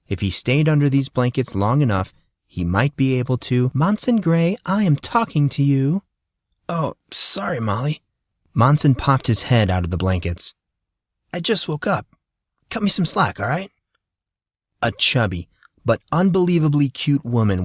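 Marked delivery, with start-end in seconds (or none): 3.7-6.0 raised, calling his name firmly; stern calling out. Acted. Mother figure calling him out. 6.7-13.7 put-on a just-woken teenager pleading; sleepy teen boy. Monson voiced as sleepy teen.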